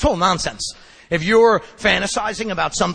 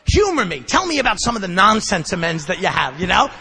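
louder, raised challenge; challenging sponsor; 6 dB louder than usual. Retold or imitated. Sponsor challenging him to name the amends, loud. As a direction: call his bluff out loud. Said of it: "he's like".

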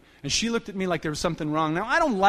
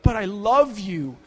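slow, drawn-out plea; pathetic pleading; 5 semitones higher, slower than usual. Retold or imitated. Begging the woman shoving him out the door, slow pathetic plea. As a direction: beg her to stay, pathetic and slow. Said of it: "just pathetic".

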